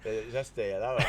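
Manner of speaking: soft Cockney babble; tongueless Cockney. Pretend. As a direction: mimic Cockney without using the tongue. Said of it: "They don't use their tongues".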